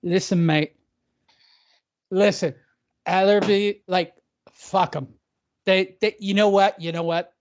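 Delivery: badly faked drunk English promoter; slightly put-on English accent, full of stop-and-start repeats; mock English accent. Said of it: "I wish I could do an English accent".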